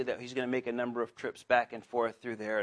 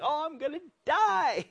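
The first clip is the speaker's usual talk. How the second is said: Gideon; 12 semitones higher than usual. Acted. Gideon after the angel appeared, high mock panic. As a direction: wail it in hammed-up dread. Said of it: "Gideon had that same kind of thing".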